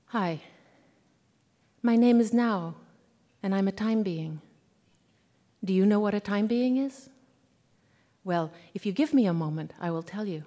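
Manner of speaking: lightly voiced schoolgirl, long pauses between phrases; Nao. Schoolgirl narrator greeting her reader, lightly voiced and unhurried. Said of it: "hear her voice the way I heard it".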